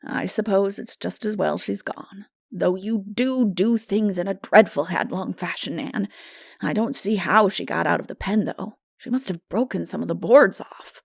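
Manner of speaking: put-on a dry, disapproving older woman; stern older woman. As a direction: tut at the girl's rashness. Marilla's voice.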